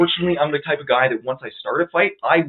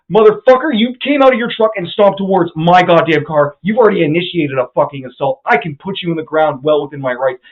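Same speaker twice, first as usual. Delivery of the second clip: loud heated yelling; retold angry shouting; 2 semitones higher, 6 dB louder than usual. Telling the driver he started the assault, loud angry shouting. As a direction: shout him down.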